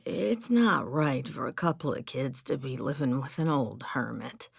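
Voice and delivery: croaking. Acted. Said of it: "Joe croaked".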